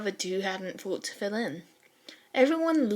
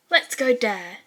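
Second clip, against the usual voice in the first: a cheerful, louder reply; happily; 2 semitones higher, 5 dB louder than usual. Acted. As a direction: answer gladly, with a brighter push. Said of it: "he happily responded".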